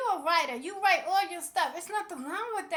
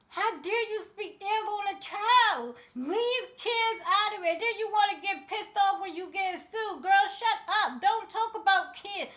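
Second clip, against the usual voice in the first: angry scolding; 3 semitones higher, 3 dB louder than usual. Real, not acted. Vlogger scolding the gossip who insulted a child, angrily.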